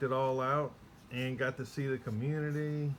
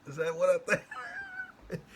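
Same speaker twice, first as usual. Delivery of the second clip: mock surprise; 7 semitones higher, 4 dB louder, slower than usual. Spotting the cards under case.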